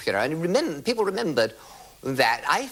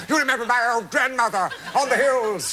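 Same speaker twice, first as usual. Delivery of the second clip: desperate plea; 11 semitones higher, 4 dB louder than usual. Retold or imitated. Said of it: "I was desperate".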